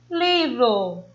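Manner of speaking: livro with LI held, then dropping; LI-vro, first syllable emphasized; stress on the first syllable. Shown as a demonstration. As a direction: lean on the LI of livro. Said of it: "a sílaba tônica é a penúltima".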